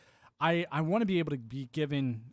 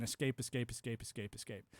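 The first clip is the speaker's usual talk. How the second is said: fading to nothing; 3 semitones lower, 7 dB quieter than usual. Retold or imitated. Escape repeated, fading away.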